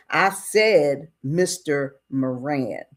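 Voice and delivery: slow, deliberate correction; firm insistence. Retold or imitated. Boss cutting off deputy to demand a title, insistent. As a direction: lay down each word slowly.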